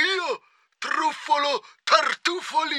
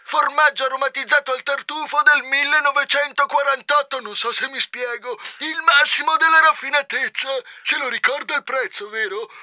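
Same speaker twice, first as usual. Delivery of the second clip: impatient merchant. Acted. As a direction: hammer home the luxury cheese. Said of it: "si spazientì".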